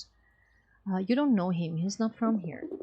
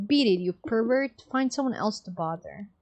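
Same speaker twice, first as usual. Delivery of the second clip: louder, sharp dismissal; louder brusque brush-off; angry shout; 3 dB louder than usual. Acted. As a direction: drive the pervert away. Woman shooing away a pervert.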